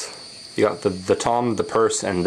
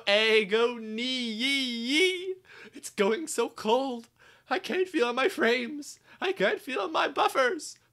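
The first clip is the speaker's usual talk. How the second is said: hammed-up dying speech; 13 semitones higher, 6 dB quieter than usual. Wrecked engine bidding Sir Topham Hatt goodbye, feeble dying voice. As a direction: gasp out melodramatic last words.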